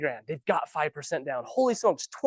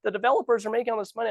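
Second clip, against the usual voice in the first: higher, whiny complaint; mocking council voice; 6 semitones higher than usual. Realtor mocking the Twila Council's complaints, higher and whiny. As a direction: parody the council's grumbling. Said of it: "what do you think the Twila Council is saying".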